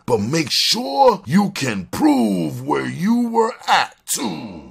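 slow, high, drawn-out orders; commanding crime boss. Acted. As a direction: stretch each instruction out, pitched high. Prince orders the crew to have alibis.

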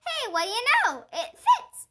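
high, loud, laughing through it; laughing delight. Acted. Junie laughing to Missus when the cap fits, high and loud.

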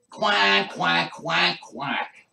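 imitation duck quacks; duck quacking. Ducks coming by the crack smokers, duck quacking. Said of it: "you hear the ducks say".

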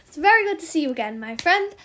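quick, bubbly rush of words; hyper greeting. Real, not acted. Greeting friend Manjo in the trade, hyper and fast. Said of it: "Sorry, I'm being so hyper".

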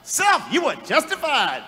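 "Self" pitched high and emphatic; stress on Self. Shown as a demonstration. Preacher talking to himself for the church, stress on "Self". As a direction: lean hard on "Self" like calling it by name. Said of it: "Emphasis on self".

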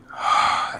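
a long unvoiced sigh as the tension leaves; soft exhale. Enthralled man releasing his breath, soft sigh. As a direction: let the breath go out of him.

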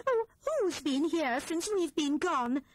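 three friends asking at once, alarmed; all three together. A narrator's reading. The three friends ask together who has been here, worried. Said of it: "they said all together".

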